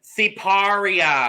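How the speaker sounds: slow, drawn-out mock Italian "Sipario"; exaggerated Italian accent. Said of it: "Dave is gonna go".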